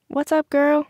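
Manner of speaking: high-pitched call over party music; mild shout. A narrator's reading. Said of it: "Vanessa shouted over the loud music".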